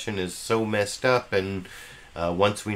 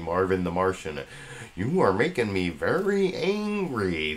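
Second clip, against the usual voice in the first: Marvin the Martian voice. Pretend. Jokey cartoon quote.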